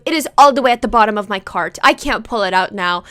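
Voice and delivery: imitating mild exasperation; mock annoyed, a bit emphatic; annoyed mom. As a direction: play a put-out mom complaining. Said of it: "And she got so annoyed".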